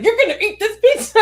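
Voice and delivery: high, loud, rushed mock outburst; retold mom rage. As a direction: snap at the kid, half laughing. Mom retells snapping at picky daughter.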